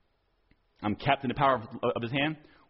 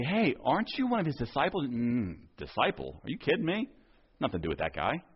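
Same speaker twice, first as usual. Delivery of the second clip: quieter, scoffing dismissal; mock Peter denial; 4 dB quieter than usual. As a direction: brush it off, playing dumb.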